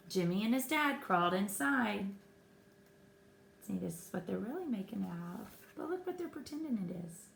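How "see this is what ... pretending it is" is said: quiet aside. Real, not acted. Aside to viewer, fast and soft.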